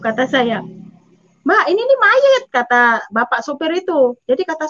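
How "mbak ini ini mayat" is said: much higher, insistent alarm; alarmed driver. Retold or imitated. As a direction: retell the driver's startled insistence. Driver insists baby is dead. (sopir kaget dan ngotot, nada tinggi)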